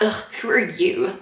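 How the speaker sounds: soft, sniffy put-down; disdainful ugh. Retold or imitated. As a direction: look down your nose and ask. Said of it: "there was, like, a".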